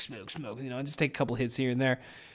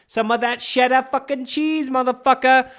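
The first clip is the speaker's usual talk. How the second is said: much higher, hammed-up put-on voice; goofy cheesy voice; 11 semitones higher, 8 dB louder than usual. Host bragging about his gig money in a much higher goofy voice. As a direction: ham it up like a cartoon hustler. Joking about earning cash.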